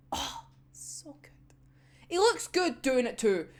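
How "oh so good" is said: whispered, slow and soft; breathless swoon. Real, not acted. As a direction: swoon under your breath. Fan swooning over character.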